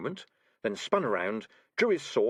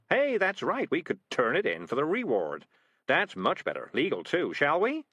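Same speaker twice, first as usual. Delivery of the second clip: sly cat; slower than usual. Acted. Cat Morris talking himself round.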